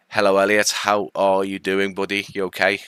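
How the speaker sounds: bright, loud hello to a viewer; cheery greeting. Real, not acted. Streamer greets a viewer by name, cheerily.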